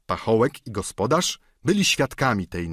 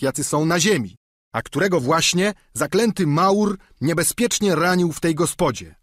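high, raised plea into the dark; calling out; 6 semitones higher, 3 dB louder than usual. A narrator's reading. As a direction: call out begging for help. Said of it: "zawołał Sancho". (wołanie, wyżej i głośniej)

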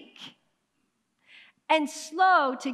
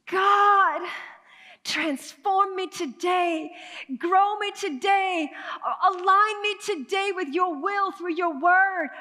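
fervent prayer; 3 semitones higher, slower than usual. Acted. Preacher voicing a fervent prayer.

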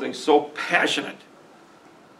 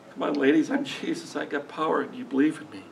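a hint of Jesus, softer and close; voicing Jesus; 6 dB quieter than usual. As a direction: lightly voice Jesus, coaxing and soft. Pastor voices Jesus to Mary, Martha.

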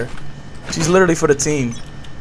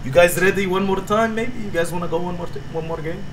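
put-on halting broken English in a thick foreign accent; 6 dB quieter than usual.

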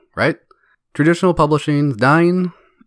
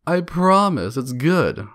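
higher, slow mock plea; mock pleading; 5 semitones higher, slower than usual. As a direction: sell it like a desperate author. Mocking a desperate author.

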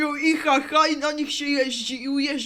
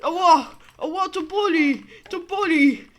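pained yelp; 3 semitones higher, 5 dB louder than usual. Acted. Crying out in pain.

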